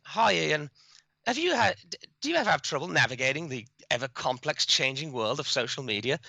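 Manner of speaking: lightly put-on infomercial pitch; a hint of infomercial patter. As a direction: read it like a mock sales script. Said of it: "in that infomercial tone".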